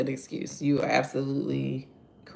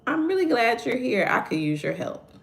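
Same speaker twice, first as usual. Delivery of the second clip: sincere; 8 semitones higher than usual. Retold or imitated.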